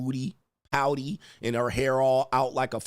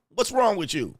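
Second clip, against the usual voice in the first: higher-pitched mock irritation; pissed-off partner; 7 semitones higher than usual. Girlfriend to her too-happy man, mock pissed off. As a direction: snap it as the annoyed girlfriend. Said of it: "she be pissed off".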